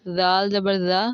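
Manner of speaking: voiced th sound in زال and زا; tongue between the teeth on زا, as in "this"; distinct letter articulation. Shown as a demonstration. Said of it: "ان کی ادائیگی بالکل".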